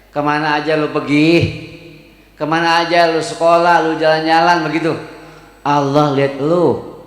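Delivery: lightly voiced Betawi parent talk; a parent telling off a child in light Betawi speech. Teacher voicing a Betawi parent to a child, a light Betawi touch. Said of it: "Kalau bahasa Betawinya".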